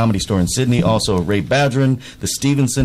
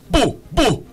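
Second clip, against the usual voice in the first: Jamaican ghost; 12 semitones higher than usual. Retold or imitated. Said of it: "my impression of a Jamaican ghost".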